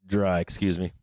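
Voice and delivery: hiccuping mid-sentence; hiccups. Real, not acted. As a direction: talk through the hiccups. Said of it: "I'm getting the hiccups".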